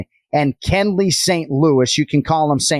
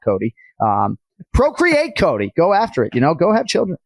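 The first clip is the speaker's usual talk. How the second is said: put-on Boston accent. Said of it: "I'm doing the whole show basically in a Boston accent".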